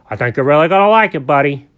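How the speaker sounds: Alfred's kindly voice. Acted. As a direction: talk brightly to a little buddy. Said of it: "And Alfred looked at him and goes".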